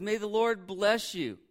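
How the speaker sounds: hammed-up phony cheer, stretched slowly; fake cheerful greeting. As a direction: greet grandly with put-on cheer. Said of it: "seems so fake to me".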